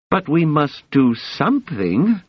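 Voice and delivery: insistent imperial ruler; emperor voice. A narrator's reading.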